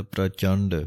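ਪ੍ਰਚੰਡ with the "r" clearly joined to the "p"; careful pronunciation. Shown as a demonstration. Teacher demonstrating ਪ੍ਰਚੰਡ for students, crisp and clear. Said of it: "ਰਾਰੇ ਦੀ ਆਵਾਜ਼ ਇਸ ਤਰ੍ਹਾਂ ਦੇਣੀ ਹੈ".

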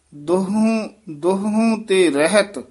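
high ਦੁਹੂੰ, halting after ਰਹਿਤ; brief halt. Shown as a demonstration. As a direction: lift ਦੁਹੂੰ and hold at ਰਹਿਤ. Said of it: "ਇੱਥੇ ਠਮਕ ਹੈ".

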